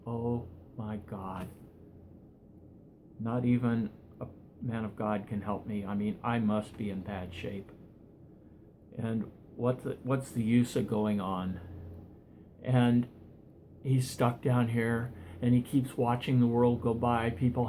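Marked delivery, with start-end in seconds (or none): 0.1-11.6 a quiet, broken aside to himself; crushed despair. Acted. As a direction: let the hope drain out of the voice. Despairs after minister leaves.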